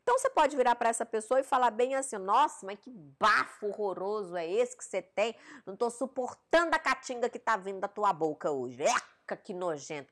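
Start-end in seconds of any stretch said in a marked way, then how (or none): 2.2-10.1 blunt and disgusted, spelling out how bad the breath is; mock-disgusted complaint to a partner; rude, disgusted. Shown as a demonstration. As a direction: show the cruel way to say it, with open disgust. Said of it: "Como é que você conversa com as pessoas desse jeito?".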